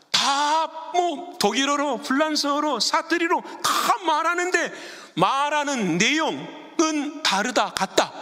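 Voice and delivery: high, drawn-out emphatic preaching; emphatic pulpit voice; fervent preaching. Real, not acted. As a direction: stretch the key words at a high pitch. Preaches at full force.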